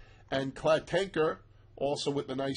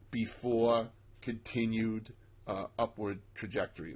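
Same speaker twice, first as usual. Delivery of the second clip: dropping much lower, voice sinking as it trails off; odd low voice; 5 semitones lower, 3 dB quieter than usual. Real, not acted. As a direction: sink low and fade away. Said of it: "Let me try to talk normal here".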